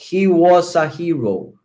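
"He was a hero" slowly, S joined onto "a"; linked words. Shown as a demonstration. English teacher demonstrating the joined S, slow and linked. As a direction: run the S of "was" into "a", unhurried. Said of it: "Entonces digo".

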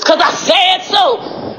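high, drawn-out declaration; yelling. Real, not acted. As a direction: yell it slowly, every word stretched. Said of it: "me yelling".

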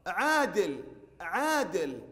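عادل with the first aa held long; long alif vowel. Shown as a demonstration. Teacher pointing out the alif, drawn-out first syllable. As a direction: stretch the open vowel after the ayn in عادل. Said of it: "نلاحظ العين مفتوحة وبعدها ألف".

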